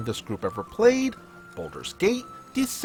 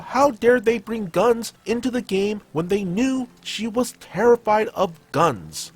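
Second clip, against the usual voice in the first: louder, higher indignant retelling; retold yelling; 5 semitones higher, 4 dB louder than usual. Cleric yelling at the group about guns, retold louder by the narrator. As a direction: narrate her outburst with raised, emphatic voice. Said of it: "She started yelling about".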